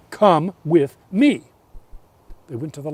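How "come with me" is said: firm invitation. A narrator's reading. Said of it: "The sister said".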